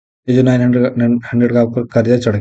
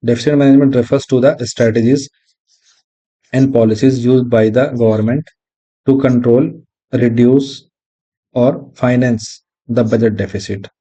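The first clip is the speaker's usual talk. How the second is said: reads the definition slowly, word by word; slow dictation; much slower than usual. Shown as a demonstration. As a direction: spell it out slowly so students can write it down. Reading definition for notes. (धीमी गति से परिभाषा लिखवाना)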